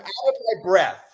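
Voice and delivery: laughing through the wrong version; joking wrong phrasing. Shown as a demonstration. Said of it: "I'm just kidding".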